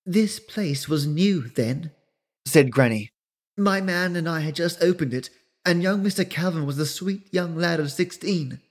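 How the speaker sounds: put-on fond and wistful, telling old history; old Granny. Granny tells Melinda the roadhouse's history, soft and old.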